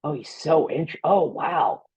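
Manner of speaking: breathy, high fawning praise; admiring gush. Retold or imitated. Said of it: "It's like".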